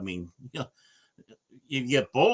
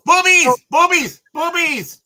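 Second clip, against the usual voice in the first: excited cheering; 9 dB louder than usual. Real, not acted.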